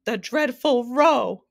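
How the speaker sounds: loud, high, drawn-out wail; hammed-up grief-stricken howl; anguished cry. A narrator's reading. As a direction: cry it out in anguish, stretching the words. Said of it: "cried the anguished Din".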